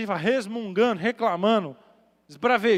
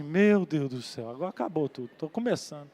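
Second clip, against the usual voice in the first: frightened prayer; 6 semitones lower, 4 dB quieter than usual. Retold or imitated. Terrified preacher prays under breath.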